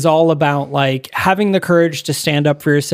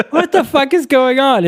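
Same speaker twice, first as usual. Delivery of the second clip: high, laughing through the words; laughing disbelief; 11 semitones higher than usual. Retold or imitated. Shelton baffled his henchmen won't shoot, laughing disbelief. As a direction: crack up while asking what's happening. Second henchman also refuses.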